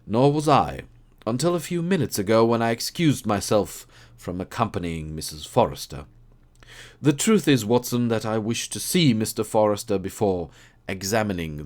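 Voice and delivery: lightly voiced keen detective; Holmes voice. Holmes voiced in read story.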